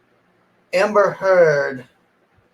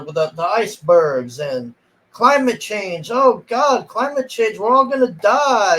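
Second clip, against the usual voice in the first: pitched up, hammed-up doom, mocking the lines; mocking dramatic dialogue; 4 semitones higher than usual. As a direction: overplay the panic about climate change like a bad movie. Mocking the movie's preachy dialogue.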